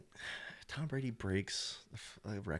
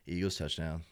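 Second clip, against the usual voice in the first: unhappy announcer; 3 semitones lower than usual. Retold or imitated. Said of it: "he's like".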